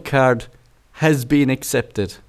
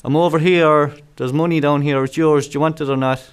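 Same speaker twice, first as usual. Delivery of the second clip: chatty checkout voice; 2 semitones higher than usual. Retold or imitated. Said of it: "it's not like".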